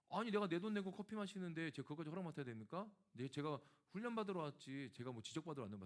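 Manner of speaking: a touch of indignant anger; indignant retold outburst. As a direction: act out the old defiant retort, half-hearted heat. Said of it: "제가 그렇게 얘기했거든요".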